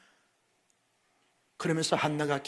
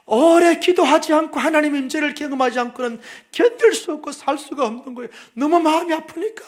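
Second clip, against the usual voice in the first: impassioned preaching; 8 semitones higher, 10 dB louder than usual. Acted. Preaching at full force.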